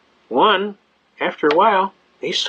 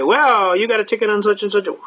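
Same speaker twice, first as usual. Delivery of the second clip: blustering judge; 5 semitones higher than usual. Retold or imitated. Judge rips off right away.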